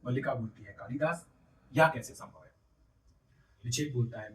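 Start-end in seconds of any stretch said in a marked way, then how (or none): 0.7-2.5 a touch of stunned disbelief, rising on the name. A narrator's reading. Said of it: "स्तंभित सी हो रहती है".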